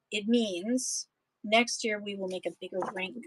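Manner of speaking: steady, rhythmic poem read-aloud. Acted. Reading a prairie poem to an audience, rhythmic read-aloud. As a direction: read the verses with a lilting beat for listeners.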